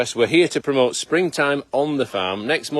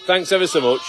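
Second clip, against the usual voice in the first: loud and higher, calling across; yelling over leaf blower; 5 semitones higher, 4 dB louder than usual. Real, not acted. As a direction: raise your voice over the noise.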